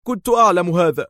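high exclaim on أعلم. A narrator's reading. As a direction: Dar cries out, excited. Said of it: "هتف دار".

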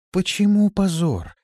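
high, drawn-out, sympathetic question; gentle question. A narrator's reading. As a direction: ask slowly, full of warm concern. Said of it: "мягко спросила Рабе". (мягко и участливо)

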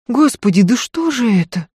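потрясённо, выше; в ужасе от крови; ахнув. A narrator's reading. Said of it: "ахнула она". (Софья ахает при виде крови)

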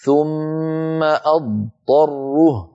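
أضطره very slow, full ض then ط; slow correct recitation; dad then ta clearly. Shown as a demonstration. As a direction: recite أضطره slowly, the letters kept apart. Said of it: "أرجو أن تلاحظوا الفرق".

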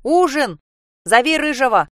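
calls out loud and high down the hall; shouting after her. Acted. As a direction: shout the supper call after the girl. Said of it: "вслед крикнула".

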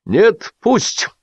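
high-pitched stubborn protest. A narrator's reading. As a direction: dig in bravely. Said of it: "мужественно заотачился Лисипедов".

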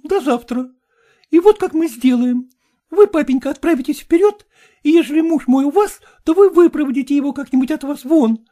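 put-on high, imploring young woman; high-voiced daughter pleading. A narrator's reading. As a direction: beg your father not to make you go.

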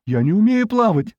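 high-pitched voice of alarm; panicked cry. A narrator's reading. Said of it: "закричал Базе".

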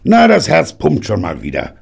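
high, loud and beaming; a beaming old granddad. A narrator's reading. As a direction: beam with pride. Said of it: "strahlte Granddaddy".

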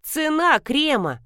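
high, drawn-out mock screech; shrieking. A narrator's reading. Customer asking the deaf granny the price, screeching. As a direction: squeal it slowly for deaf ears. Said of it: "заверещала я".

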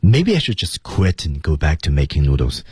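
brief break after "quit", before "and"; phrase break placed right after "quit"; pause after quit. Shown as a demonstration. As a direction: hold on "quit", then go on with "and go back". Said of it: "它的停顿点是在那个quit的后面".

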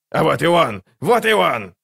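gleeful, surprised crow cry; delighted squeal. A narrator's reading. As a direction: squeal with joy and anticipation, climbing on the repeat. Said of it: "Карга взвизгнула от радости и предвкушения".

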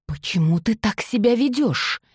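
mildly furious question. A narrator's reading. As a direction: demand it, losing her temper. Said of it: "яростно вопросила она".

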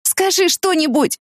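high, slow begging; desperate plea. A narrator's reading. Woman begging silent friend to speak, slow high plea. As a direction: pull words out of him.

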